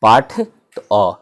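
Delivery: "पाठ" drawn out slowly, then अ on its own; final अ sounded. Shown as a demonstration. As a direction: say "पाठ" very slowly and isolate its closing अ. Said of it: "last में अ का उच्चारण". ("पाठ" धीरे बोलकर अंत का अ अलग से)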